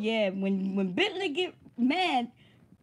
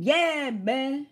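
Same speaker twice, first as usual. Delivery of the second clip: louder, drawn-out exclamation; boisterous impression, a bit louder; mock loud Bentley; 2 semitones higher, 5 dB louder than usual. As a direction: imitate someone come out of his shell. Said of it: "went from being quiet, real low, to being".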